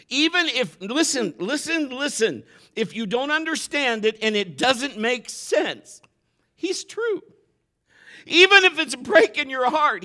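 high, loud preaching that climbs to a cry; impassioned preaching. Acted. Pastor crying out to the congregation, loud and high. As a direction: preach it out with full force.

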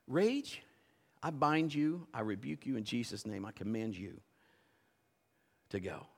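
soft, low, measured rebuke; understated exorcising prayer, hushed; quiet command. Retold or imitated. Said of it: "he wasn't screaming".

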